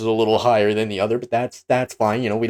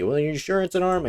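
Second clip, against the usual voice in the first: skeptical viewer; 9 semitones higher than usual. Retold or imitated. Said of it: "You're gonna see".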